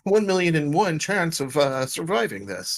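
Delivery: fussy droid reciting the odds; lightly voiced worried protocol droid; C-3PO. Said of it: "in C P three oh voice".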